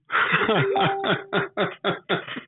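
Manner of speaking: stuffy-nosed laugh with a cold. Real, not acted. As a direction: laugh through a blocked nose. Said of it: "so my laugh sounds weird".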